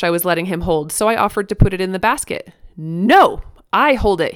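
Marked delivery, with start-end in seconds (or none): 2.8-4.3 imitated toddler insisting, loud opening word; mild mock shout. A narrator's reading. Toddler refusing to put toothbrush in basket, mock shout. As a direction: insist like a stubborn two-year-old. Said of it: "he shouted".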